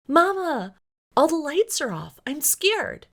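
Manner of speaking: put-on high, loud frightened child voice; a small boy calling his mother in fear; scared little boy. Little son waking his mama in the dark, frightened.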